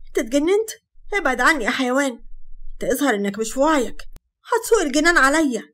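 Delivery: angry rebuff. Acted. Sara to Hatem, yelling him away. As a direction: shove him off with words.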